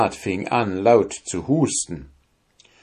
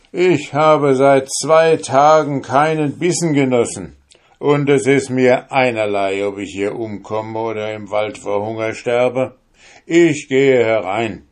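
stubborn soldier; 5 semitones higher, 5 dB louder than usual. Acted. Soldier insists on entering.

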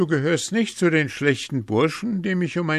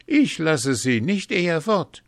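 high, animated boasting; boastful calling out; 9 semitones higher, 5 dB louder than usual. A narrator's reading. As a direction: call your big news across to someone. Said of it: "Hans rief ihm entgegen".

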